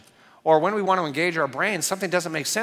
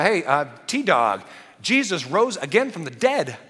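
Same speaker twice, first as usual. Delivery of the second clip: excited news; 2 semitones higher, 3 dB louder than usual. Retold or imitated. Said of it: "they are all excited".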